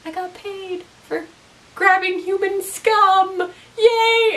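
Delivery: hammed-up delighted bounty hunter; gleeful Maze. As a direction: chirp it like proud news. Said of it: "she goes to Doctor Linda to be like".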